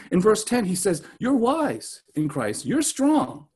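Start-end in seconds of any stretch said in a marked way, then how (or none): 1.2-3.5 lightly mocking praise; a hint of Paul's irony; understated sarcastic compliments. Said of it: "That's sarcasm".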